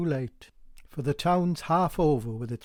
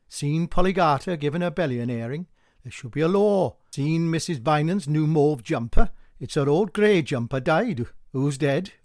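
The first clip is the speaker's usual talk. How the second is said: louder, nosy gossip; gossiping women; 5 dB louder than usual. Acted. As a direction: cluck it out eagerly.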